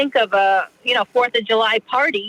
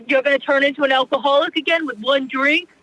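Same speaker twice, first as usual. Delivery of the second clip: mock pushy friend; 3 semitones higher than usual. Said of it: "because they're like".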